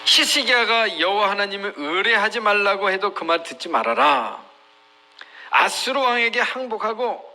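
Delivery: acted proclamation of defiance; provocative taunt. Envoy addresses Judah's people against trusting God, provocative. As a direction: declare it as a goading enemy envoy. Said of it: "도발을 하는 거예요".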